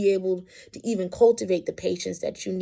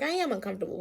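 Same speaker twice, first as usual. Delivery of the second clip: softer, understated complaint; imitated chill child; 7 dB quieter, much faster than usual. Mom imitating her less upset daughter's complaint, understated and chill. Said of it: "a little bit more on the chill side".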